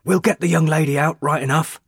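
loud, high reassuring shout over the fire; fireman shouting. A narrator's reading. Fireman calling to the man at the blaze, loud high shout. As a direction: shout that the young lady will be saved. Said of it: "cried a fireman".

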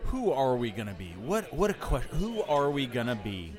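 mock-profound pondering; existential musing. Improviser turns a scene line philosophical for castmates, mock-existential musing. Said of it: "you're getting very existential on me".

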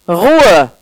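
sharp, loud cry for silence; story grain yelling at the noisy crowd; angry bellow. Acted. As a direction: bark it to shut them up. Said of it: "brüllte schließlich eines der Salzkörner aufgebracht".

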